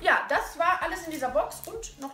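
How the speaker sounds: talking around candy in mouth; mouth full. Real, not acted. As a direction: speak around a sour sweet. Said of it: "Einen habe ich ja bereits im Mund".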